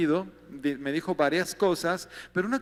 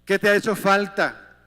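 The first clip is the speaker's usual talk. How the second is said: voice of God; 6 dB louder than usual. Retold or imitated. Voicing God questioning him.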